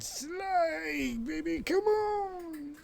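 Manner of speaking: high, slow sing-song call to the pet. Real, not acted. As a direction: coo the pet's name up high. Calling to pet Sly.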